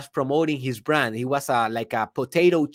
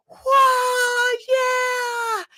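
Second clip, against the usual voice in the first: crowd cheer. Retold or imitated.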